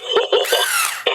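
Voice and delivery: short laugh at a punchline. Acted. Joker laughs at his own pig joke, short laugh. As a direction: let out a quick laugh.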